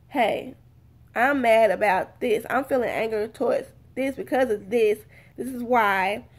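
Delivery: calmly stated, everyday voice; calm explanation. Shown as a demonstration. Telling someone why you are mad, calmly. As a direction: explain it evenly, without heat. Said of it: "tell them calmly".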